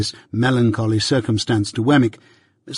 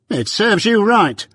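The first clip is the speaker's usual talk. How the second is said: slow, higher scornful jab; scornful dismissal; 9 semitones higher, slower than usual. A narrator's reading. Wemmick scorns the departing Mike, slow and higher. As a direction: rub it in.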